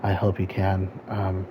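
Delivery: talking loud over engine noise; shouting over engine. Real, not acted. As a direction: raise your voice over the roar. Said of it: "hear me over the engine".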